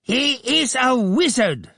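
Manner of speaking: vulture-like Abdullah screeching; screeching accuser. A narrator's reading. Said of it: "screamed Abdullah".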